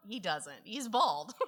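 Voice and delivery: words breaking into laughter; laughing. Real, not acted. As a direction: laugh through it. Laughing retelling her reply.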